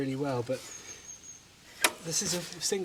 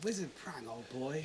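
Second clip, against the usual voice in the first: clipped wartime posh; 11 dB quieter than usual. Retold or imitated. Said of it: "My nan and granddad used to say that".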